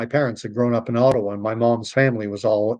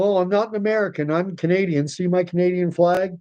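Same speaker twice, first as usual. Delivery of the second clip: mock eager protest; 5 semitones higher than usual. Mock eager Canadian abroad.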